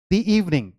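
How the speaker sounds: "दी" with ee, running into "इवनिंग"; "dee" before a vowel. Shown as a demonstration. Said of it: "उसकी pronunciation क्या हो जाएगी".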